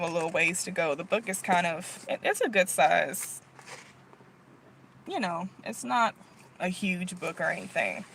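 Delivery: breathless and quiet; running out of air; out of breath. Real, not acted. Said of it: "let me catch my breath".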